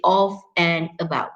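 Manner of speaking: OF in full strong form, not reduced; stressed OF. Shown as a demonstration. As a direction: lean on OF, then "and about". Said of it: "you have to stress".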